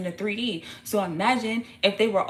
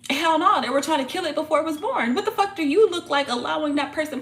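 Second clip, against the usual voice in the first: high, louder, affronted protest; indignant outburst; 8 semitones higher, 4 dB louder than usual. Acted. Speaker scolds whoever lets dream-killers near the baby, indignant. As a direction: fire it out in protective outrage.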